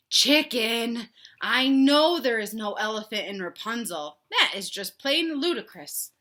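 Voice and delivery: lightly voiced stern father; a father's mild reproach; a hint of a stern papa. Papa scolds Chicken.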